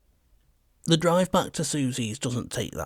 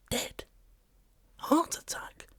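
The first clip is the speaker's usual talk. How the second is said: hushed disbelief rising to a high shout; stunned, then scream out the confusion; a dog screaming at the paramedics; confused frustrated scream; 11 semitones higher, 4 dB louder than usual. A narrator's reading. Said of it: "I scream in confused frustration".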